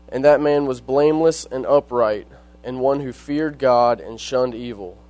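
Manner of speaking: measured reading of Bible verses; scripture reading. Acted. Reads scripture aloud.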